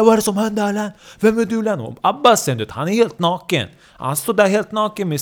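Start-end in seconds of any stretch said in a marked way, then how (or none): 0.0-1.8 high, startled questioning; alarmed outcry. Acted. Woken friends find a naked intruder, alarmed outcry. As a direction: burst out as if just woken.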